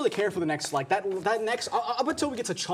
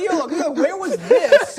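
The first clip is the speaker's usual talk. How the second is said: mock amazement; 8 semitones higher, 8 dB louder, slower than usual. Reacting to the song, laughing.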